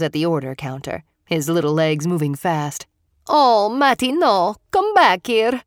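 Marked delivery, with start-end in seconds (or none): 3.3-5.6 higher, louder alarmed call; a grandmother calling her grandson back, alarmed; calling after child. A narrator's reading. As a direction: stop the runaway boy. Grandmother chasing runaway boy.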